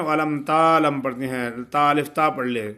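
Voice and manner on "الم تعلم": تعلم with تا drawn out; wrong long taa. Shown as a demonstration. Teacher imitates students' wrong long تا. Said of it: "جو لوگ غلط پڑھتے ہیں نا".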